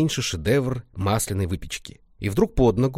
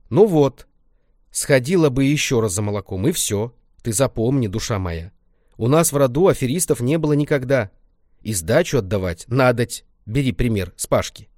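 granny's lesson; 2 semitones higher, 4 dB louder than usual. Acted. Grandma instructs Lenka on honesty, granny voice. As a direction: lecture her kindly as a granny.

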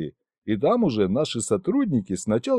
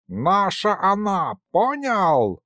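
a higher, slow mock bark; barking old man; 7 semitones higher, slower than usual. A narrator's reading. Grandfather barks at the ambassador about the bride, higher and slow. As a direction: snap it at them like a cranky grandpa. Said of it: "рявкнул Михалыч".

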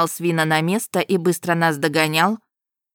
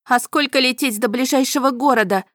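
calling out; 6 semitones higher than usual. A narrator's reading. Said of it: "выкрикнула я".

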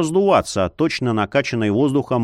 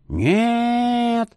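high anguished wail; wailing cry; 8 semitones higher than usual. A narrator's reading. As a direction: cry out in horror. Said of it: "возопил он".

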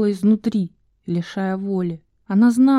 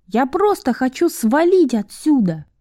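high, raised angry voice; shouting; 5 semitones higher than usual. Acted. Val shouting at Enisa, barely aware of it. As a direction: shout it back at her. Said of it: "Вэл кричала".

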